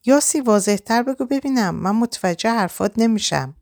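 inflamed, angry. A narrator's reading. Reza demands Yasi explain herself, angrily. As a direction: push her hard to speak plainly. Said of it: "برافروخته و خشمگین گفت".

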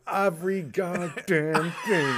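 put-on loud, cranky old-man grumbling about kids; old curmudgeon. Podcaster hamming up an old curmudgeon ranting about late kids, loud and cranky. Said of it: "allow me to be an old curmudgeon".

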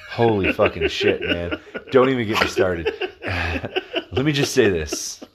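laughing through the words; exasperated, breaking into laughter; laughing exasperation. Real, not acted. Asked about his most disappointing movie, laughing in exasperation.

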